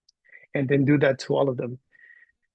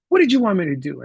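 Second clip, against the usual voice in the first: higher-pitched imitated kid question; articulate child; 5 semitones higher than usual. Boy asking teacher what was wanted, articulate and higher. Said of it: "he was very articulate".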